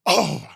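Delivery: loud released breath; gasp of relief. Retold or imitated. Player breathing again after the hit, loud gasp of relief. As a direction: let out a sudden re-enacted breath.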